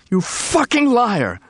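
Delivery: high, slow shriek breaking with hurt. Acted. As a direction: shriek it, betrayed and heartbroken. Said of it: "shrieked in a voice breaking with hurt".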